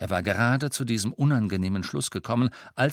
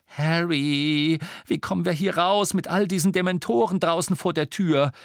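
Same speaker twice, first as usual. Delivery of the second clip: higher, louder worried question; anxious Hermine; 8 semitones higher, 4 dB louder than usual. Acted. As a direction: urgently ask a friend for help.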